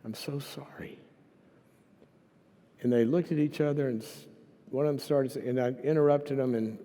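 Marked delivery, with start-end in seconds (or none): 0.0-1.0 heartfelt apology. Retold or imitated. Apologizing for making someone feel that way, heartfelt. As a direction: offer a tender, hushed apology.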